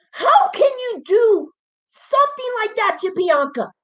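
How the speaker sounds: tearful pleading. Real, not acted. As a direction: beg them to explain, voice cracking. Pleading about wrestler being buried.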